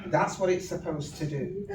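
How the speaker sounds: loud, laughing comeback; laughing retort. Retold or imitated. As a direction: laugh it in his face. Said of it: "I said".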